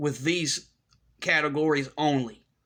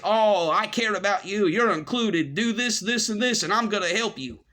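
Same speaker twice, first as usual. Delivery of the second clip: mock-friendly, pitched up; fake caring; 5 semitones higher than usual. Cool kids luring in an outsider, fake friendliness. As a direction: put on phony concern, mockingly. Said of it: "With the fake".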